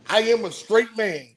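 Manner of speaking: firm weight on "straight man"; emphatic "straight man", each word set out; read in capital letters. Retold or imitated. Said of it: "He put it in capital letters".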